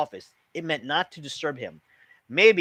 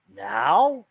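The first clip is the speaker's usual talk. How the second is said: a high, loud surprised question; 6 semitones higher, 6 dB louder than usual. A narrator's reading. Mother surprised the guest wants to leave, high and loud. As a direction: catch her off guard. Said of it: "Mom sounded surprised".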